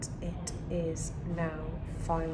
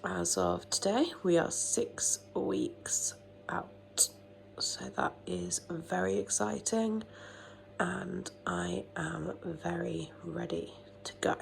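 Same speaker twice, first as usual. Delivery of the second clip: groggy, half-whispered early morning voice; just woke up, hushed and drowsy; sleepy voice. Real, not acted. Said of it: "Excuse the sleepy voice".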